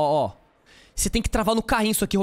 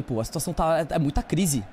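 ordinary talk, nothing marked

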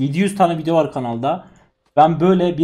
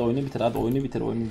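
usual speaking voice

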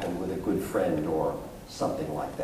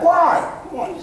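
loud, much higher shouted question; yelled back; 6 dB louder than usual. Retold or imitated. Boys shouting down to their father, high and loud. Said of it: "And they yelled back".

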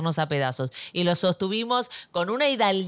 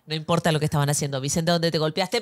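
lower-pitched imitation of husband; lightly voiced husband, lower than her own; 5 semitones lower than usual. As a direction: play the calmer parent cutting in. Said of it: "Sebastián me decía".

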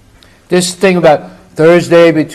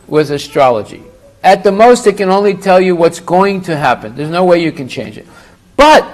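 ordinary delivery

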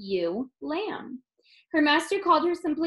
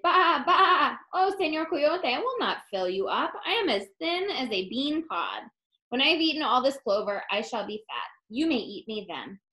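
bleating lamb; 3 semitones higher than usual. Acted. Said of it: "Borreguita bleated".

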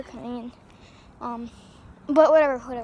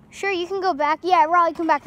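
calling out; 4 semitones higher, 5 dB louder than usual. Real, not acted. Calling sister back from the road.

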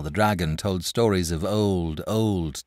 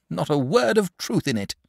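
solemn dragon; 10 semitones higher than usual. Acted. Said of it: "wagging his head solemnly".

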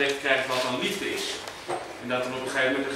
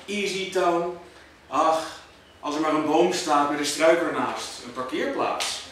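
measured poetry reading with deliberate pauses; poem recital. Acted. Poet reciting to an audience about Houten, measured recital. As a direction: recite it line by line, weighing each phrase.

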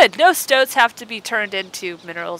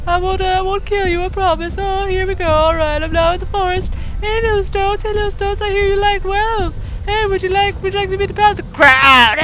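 higher, goofy friendly giant voice; Jenna Marbles voice; 8 semitones higher than usual. Acted. The mountain giant greeting villagers in a high goofy Jenna Marbles voice. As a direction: play the giant as a cheery high doof. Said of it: "I sound like Jenna Marbles".

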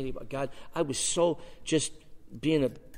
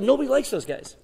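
high, louder indignant retort; indignant protest; 10 semitones higher, 5 dB louder than usual. Retold or imitated. Young man arguing with God, indignant. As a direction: protest like it's obvious.

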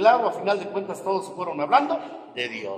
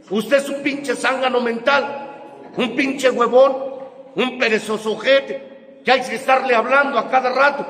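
scolding insult; 5 semitones higher, slower than usual. Real, not acted. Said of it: "scolding the listener".

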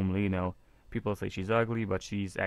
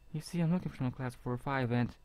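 put-on light girl voice; 5 semitones higher than usual. Voicing girl character.

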